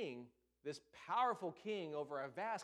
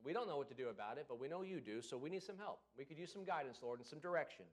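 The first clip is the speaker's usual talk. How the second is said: calm trusting prayer; 3 semitones lower than usual. Retold or imitated. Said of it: "They said".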